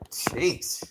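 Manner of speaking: breathy whispered jeez under the breath; a stunned little whisper. Real, not acted. Viewer whispers to herself at shocking news, in a hushed whisper.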